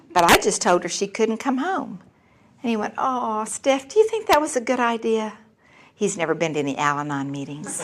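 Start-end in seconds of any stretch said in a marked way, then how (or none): 3.0-5.4 imitating a wincing, worried husband; doubtful concern. Husband doubting wife's decision, hesitant worry.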